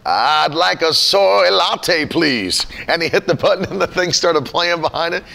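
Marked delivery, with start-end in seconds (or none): 0.1-2.7 slow, drawn-out preacher voice ordering; a lightly hammed pulpit tone at the counter; pastor ordering coffee. Pastor mock-preaching his Starbucks order. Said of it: "he was like".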